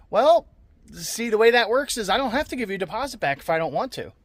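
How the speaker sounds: high, loud, mocking explanation; retelling a cocky brush-off to the buyer; smug retort. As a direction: rub it in that he keeps the deposit. Retold telling off the buyer.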